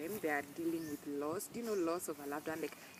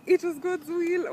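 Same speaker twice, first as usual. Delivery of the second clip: much higher and much louder, incredulous mimicry of "It was God's will"; mocking repeat; 14 semitones higher, 15 dB louder, slower than usual. Shown as a demonstration. Vlogger mocking what relatives told her at the funeral, loud and incredulous. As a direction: throw the phrase back in disbelief. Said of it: "Number two, it was God's will".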